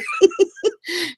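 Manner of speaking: light high giggle; real giggle. Real, not acted. Laughing while thanking Lori.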